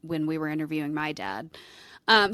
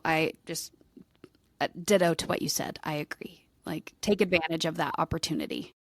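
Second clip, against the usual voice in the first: whispered agreement. Real, not acted. Cohost whispering her agreement to her friend. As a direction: breathe it out as a hushed aside. Quiet heartfelt aside to cohost.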